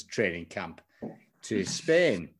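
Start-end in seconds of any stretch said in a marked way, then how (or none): 0.0-0.8 said in inverted commas, slightly lower and softer; wry, knowing quote marks; ironic air quotes. Real, not acted. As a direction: put the words in sly quotation marks. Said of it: "I'm gonna say it in inverted commas".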